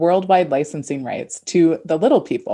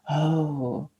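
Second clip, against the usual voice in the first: awkward acceptance; slower than usual. Retold or imitated. Shopper corrected at a craft fair, taken-aback okay. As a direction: go along with it, caught off guard. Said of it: "And I'd be like".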